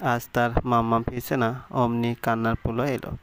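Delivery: plain reading voice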